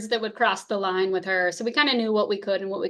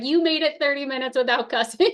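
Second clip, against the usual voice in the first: higher, amused imitation of a laughing husband; retold laughing tease; 4 semitones higher than usual. Husband laughing about her half hour without cussing, amused teasing. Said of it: "he starts laughing and he's like".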